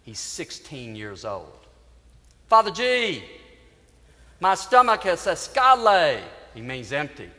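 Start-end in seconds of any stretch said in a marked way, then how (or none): 2.5-6.2 put-on loud, high pleading kid; begging teen. Gang kid begs Father G for food, loud and high. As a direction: plead with the priest like a hungry kid.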